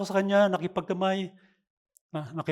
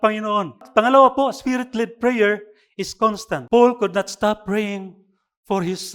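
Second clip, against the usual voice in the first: preaching; slower than usual. Acted. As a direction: preach the point to the congregation. Pastor preaches to congregation.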